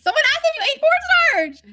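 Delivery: high, loud excited read-out; excited exclaim. Real, not acted. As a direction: call it out with delight. Reading a question out excitedly.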